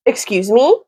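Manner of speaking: "Excuse me?" asked with a rising, shocked lift on "me"; shocked question. Real, not acted. Vlogger reacting to the boyfriend's lie, shocked rising question. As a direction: throw the question back in disbelief.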